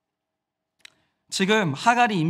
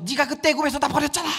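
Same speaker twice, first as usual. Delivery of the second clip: high-pitched acted quarrel voice; accusing outburst; 6 semitones higher than usual. Sarai accusing her husband over Egypt mid-quarrel, high accusing outburst. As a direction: throw an old grievance at a husband.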